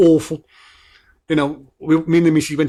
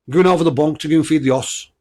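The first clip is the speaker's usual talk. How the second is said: louder, higher Black Country saying in one run; Black Country at speed; 4 semitones higher, 5 dB louder than usual. Shown as a demonstration. Podcaster testing listeners on a saying, Black Country accent in one go. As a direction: rattle off the Black Country phrase without pauses. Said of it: "I'll say it again slowly".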